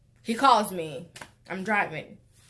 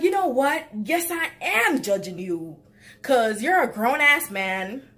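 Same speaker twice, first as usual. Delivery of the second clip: loud, fed-up telling-off; fed-up scolding; 4 semitones higher, 4 dB louder than usual. Retold or imitated. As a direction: let him have it, fed up. Her scolding retort to boyfriend.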